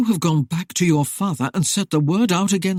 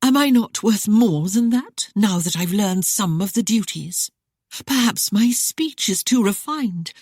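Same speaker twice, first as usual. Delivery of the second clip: coy tease; 6 semitones higher, 3 dB louder than usual. Acted. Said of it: "a coy smile as her eyes".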